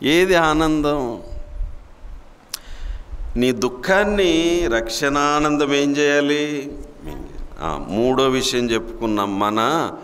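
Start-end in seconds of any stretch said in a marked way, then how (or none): 0.1-6.8 preacher's urgent challenge; impassioned raised question. Real, not acted. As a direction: demand an answer from the flock.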